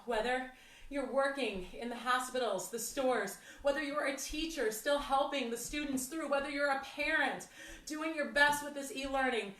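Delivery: gentle, heartfelt appreciation; sincere thanks. Real, not acted. Instructor thanking workers, teachers and parents at home, softened sincere gratitude. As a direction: ease off and thank them sincerely.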